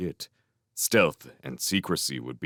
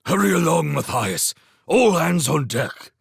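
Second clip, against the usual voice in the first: urgent hiss; 9 semitones higher, 5 dB louder than usual. Acted. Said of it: "Log-a-Log hissed".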